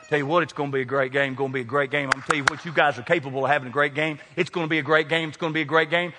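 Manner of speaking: quick, repetitive huddle chatter; mock pep talk. Team huddled midfield hyping the game, rapid repetitive chatter. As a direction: rattle it off like endless team hype.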